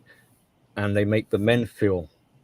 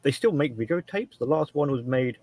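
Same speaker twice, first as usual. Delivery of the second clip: higher-pitched mock "did you know" reveal; acted news-breaking; 4 semitones higher than usual. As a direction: play someone sharing a surprising tidbit. Acting someone bringing him news.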